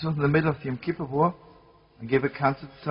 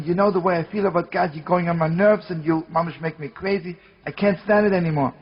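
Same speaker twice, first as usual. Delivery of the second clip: louder, fed-up complaint; exasperated outburst; 2 semitones higher, 5 dB louder than usual. Retold or imitated. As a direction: vent your frustration at him. Acted quarrel with his comrade.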